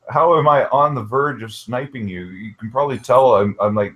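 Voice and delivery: chewing while talking; mouth full. Real, not acted. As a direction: talk through a bite of food. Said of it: "speaking with my mouth full right now".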